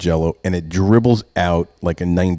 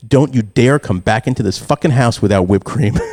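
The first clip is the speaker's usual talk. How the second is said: retold yelling; 3 semitones higher, 4 dB louder than usual. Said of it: "I start yelling at him".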